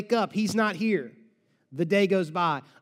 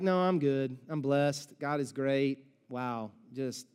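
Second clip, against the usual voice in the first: fake cheerful; 6 semitones lower, 5 dB quieter than usual. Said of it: "Martha's not like".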